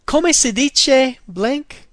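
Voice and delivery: teacher model, each syllable of Come si dice blank? drawn out; slow Italian demo. Shown as a demonstration. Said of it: "practice sounding like an Italian".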